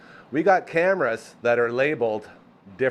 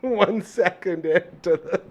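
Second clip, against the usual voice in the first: laughing; 6 semitones higher than usual. Real, not acted. Laughs during the banter.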